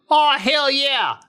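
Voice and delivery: high, drawn-out storyteller voice; Carl. Retold or imitated. Friend retelling the bull chase, high and excited. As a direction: imitate an excited Oklahoman, voice way up, stretching words. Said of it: "But Carl goes".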